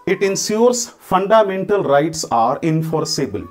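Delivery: each word drawn out slowly; slow dictation. Shown as a demonstration. Teacher dictating the model line to students, very slow. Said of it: "ऐसे लिख सकते हैं".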